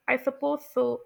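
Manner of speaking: "I suppose so" dipping down, then rising; unsure, polite fall-rise on "I suppose so"; fall-rise intonation. Shown as a demonstration. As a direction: let "I suppose so" fall and lift at the end. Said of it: "उतार आ रहा था".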